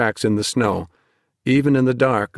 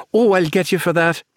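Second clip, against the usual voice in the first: put-on much higher, playful girl's threat; 8 semitones higher than usual. A narrator's reading. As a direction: vow revenge half in fun. Naomi playfully threatening Ben.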